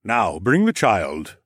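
slow, firm royal command. Acted. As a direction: give the order slowly and firmly. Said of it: "Rodion commanded".

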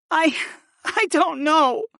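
high, slow, halting confession; hesitant admission. A narrator's reading. Archon admits she has no answer, hesitant. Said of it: "she admitted".

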